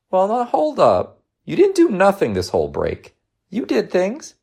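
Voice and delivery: high, animated mom objection; insistent mother. Acted. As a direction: contradict the child encouragingly.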